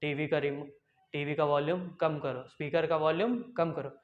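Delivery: low-pitched dad giving an order; lightly voiced father. Father telling child to turn the TV down, low voice. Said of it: "आपके पापा बोलेंगे".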